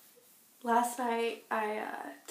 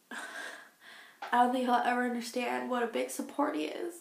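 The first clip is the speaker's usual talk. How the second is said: laughing; 3 semitones higher than usual. Real, not acted. Repeats line, then laughs.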